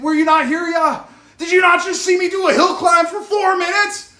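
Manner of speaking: high, loud exhausted ranting at the chat; worked-up shouting, fighting for breath; yelling at viewers mid-workout; real yelling. Real, not acted. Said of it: "Look, I don't mean to yell".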